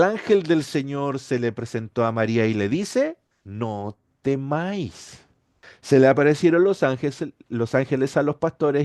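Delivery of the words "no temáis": slow and softer, soothing; calm her fear gently; gentle comfort. Acted. Angel speaking to frightened Mary, slow gentle reassurance.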